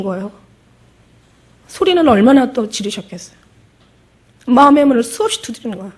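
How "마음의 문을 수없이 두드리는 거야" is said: normal talking voice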